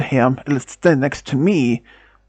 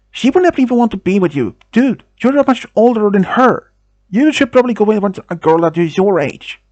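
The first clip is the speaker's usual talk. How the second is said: retold angry scolding, a bit higher and quick; 4 semitones higher than usual. Claire tells off the older guy, mock angry and fast. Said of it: "she said most angrily".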